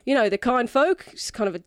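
put-on lightly accented drunken quest-giver; tipsy non-player character. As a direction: lay out the job as a mildly tipsy rogue. Game master voices Echo.

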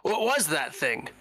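high, hurried piping-up; Toyota. Acted. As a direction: burst in with a high, stammered question. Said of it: "pipes up and says".

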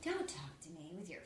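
weak attempt at Crystal's foreign accent, hushed; a clumsy try at her accent. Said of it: "I can't do her accent".

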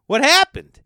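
loud, very high-pitched exclamation; hammed-up shocked question; startled question. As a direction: burst out in exaggerated alarm. Acting out alarmed reply to friend.

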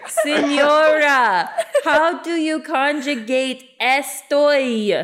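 laughing student. Acted. Student role, laughing, slow.

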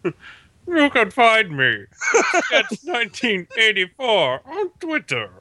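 Bane voice. Pretend. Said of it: "Kinda sound like Dracula if we had a Bane mask".

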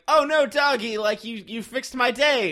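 high, loud gushing to a doggy; hammed-up sweet talk to a dog; mock-friendly man. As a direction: gush at the dog in a high put-on voice.

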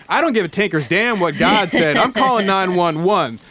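mild mock shout; shouting back. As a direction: snap at the groom and reach for the phone. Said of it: "Homeowner shouts back".

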